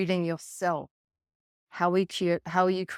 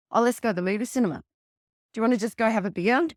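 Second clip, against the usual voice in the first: breezy brush-off; 3 semitones higher, 4 dB louder, much faster than usual. Retold or imitated. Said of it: "You're not gonna go".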